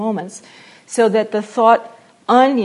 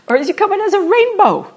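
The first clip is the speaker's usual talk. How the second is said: laughing rainbow; 10 semitones higher, 7 dB louder than usual. Shown as a demonstration. Teacher acting out moods.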